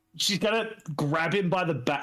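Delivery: ordinary delivery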